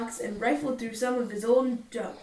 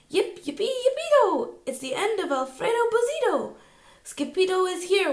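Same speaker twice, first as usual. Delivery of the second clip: much higher, louder cheering; joyful cheer; 8 semitones higher, 4 dB louder than usual. Acted. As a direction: whoop with joy at the hero. Don Diego celebrates hero's arrival.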